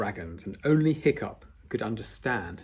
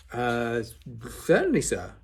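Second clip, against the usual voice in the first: delighted; 3 dB louder than usual. Acted. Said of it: "delighted to be asked".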